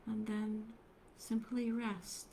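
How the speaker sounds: unhurried meditation guidance with long pauses; guided meditation. Acted. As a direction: gently guide them into stillness, leaving space between phrases.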